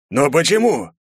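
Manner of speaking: a despairing shout of why; helpless cry. A narrator's reading. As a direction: cry out with no power left. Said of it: "беспомощно крикнул Тхас".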